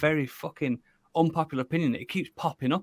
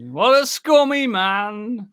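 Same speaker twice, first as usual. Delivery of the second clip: mock disgust; 10 semitones higher, 4 dB louder, much slower than usual.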